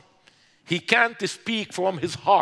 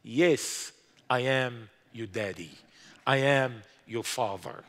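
voice of God; 8 semitones lower, 6 dB quieter than usual. Retold or imitated. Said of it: "I heard his voice very clearly".

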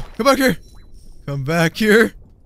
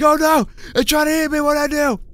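high, frantic little fish voice; mock panicked fish; 9 semitones higher, faster than usual. Gamer voicing a fleeing fish, high mock panic. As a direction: squeal it like a cartoon fish in danger. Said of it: "It's like".

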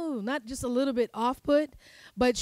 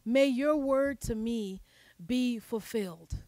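"May your word to me be fulfilled" drawn out slowly and softer; slow, softer reflective echo; slow, softening repeat; 3 dB quieter, slower than usual. Shown as a demonstration. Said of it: "repeats the line more slowly".

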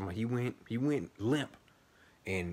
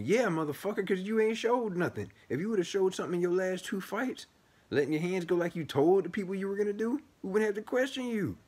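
raised, higher-pitched angry outburst at the fighter; real angry rant; 10 semitones higher than usual. Real, not acted. A bettor who lost money on the fighter ranting at him, angry and raised. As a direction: let the frustration explode, pitch climbing. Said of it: "I'm mad because I put money on him".

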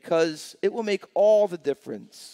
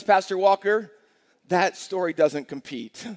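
skeptical congregant. Retold or imitated.

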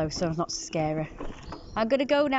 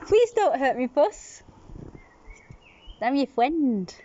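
mock plea; 5 semitones higher, slower than usual.

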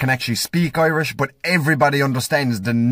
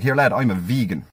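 lower, odd put-on voice to seem unwell; feigning something wrong; 4 semitones lower than usual. Comic retelling how he fooled the angry driver, odd put-on voice. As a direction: play dumb in a strange voice. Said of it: "I was like".

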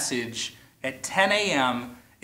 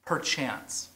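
soft, lingering perchance; a quiet echo of "Perchance" after the sentence; savored repetition; 2 semitones lower, 7 dB quieter than usual. Shown as a demonstration. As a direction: repeat "Perchance" softly, tasting it. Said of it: "I love the word perchance".

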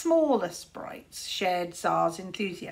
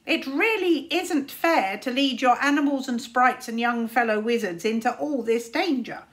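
worried raven Caliburn; 2 semitones higher, 5 dB louder than usual. Acted. Raven warning Tsar about danger, fretful scolding. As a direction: nag the boy like an anxious old bird.

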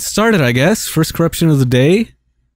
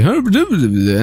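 mock Undyne babble. Player mimicking a game character's coming rant, mock babble. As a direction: babble nonsense as a dismissive imitation. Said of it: "Undyne's gonna be like".

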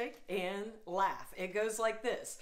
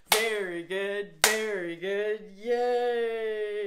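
cheering; 6 dB louder, slower than usual. Shown as a demonstration. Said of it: "Say that with me".

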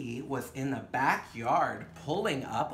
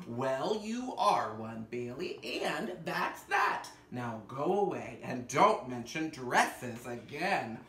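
stern mother; slower than usual. Acted. Mother dismisses child.

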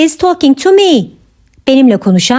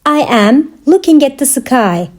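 measured, separated phrases; careful teaching repeat. Shown as a demonstration. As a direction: pause after "I am". Teacher repeats answer for learners.

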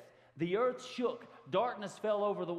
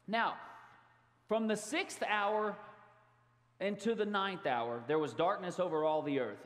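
scripture reading. Acted. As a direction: lay each phrase down solemnly. Reads scripture aloud.

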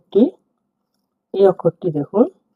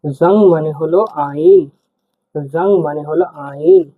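জাং মানে হলো আইন said slowly and clearly; slow classroom repeat; slow teaching pace. Shown as a demonstration. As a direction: dictate it slowly. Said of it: "Bangla লেখা আছে দেখুন".

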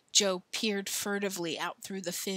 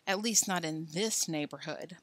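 softer, under-the-breath aside; muttered; 5 dB quieter than usual. Acted. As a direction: mutter it once the door shuts. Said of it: "muttered Joe".

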